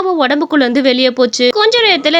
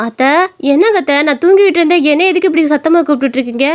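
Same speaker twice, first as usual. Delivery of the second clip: mildly peeved, asking why she was disturbed; annoyed daughter-in-law. Acted. Woken daughter-in-law complains about the noise. (எரிச்சலோடு கேட்கும் மருமகள்)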